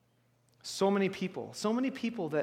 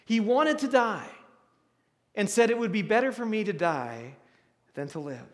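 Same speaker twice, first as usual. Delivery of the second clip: scripture reading. Acted. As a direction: read the passage with weight. Reads scripture aloud.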